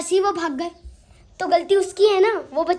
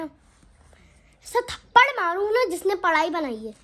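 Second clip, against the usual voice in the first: mock anger; 3 semitones higher, slower than usual. Real, not acted. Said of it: "मुझे इतना गुस्सा आता है ना".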